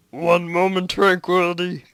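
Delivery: radio call-out. Acted. Mission control answering the astronaut, calling out over the radio.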